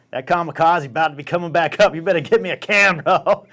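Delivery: hammed-up urgency, laugh creeping in; urgent warning. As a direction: warn him you're about to be sick. Reenacts urgent warning before vomiting.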